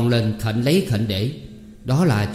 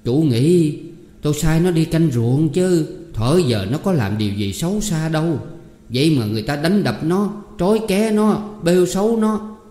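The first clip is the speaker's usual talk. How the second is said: plaintive complaint; 6 semitones higher than usual. Acted. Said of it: "Mẹ tôi kể lể".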